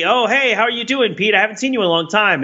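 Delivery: bright high hello, rushed; mock cheery greeting. Friend runs up after a long time, mock cheery greeting. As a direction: play the eager friend running up. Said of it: "you'll run up to me".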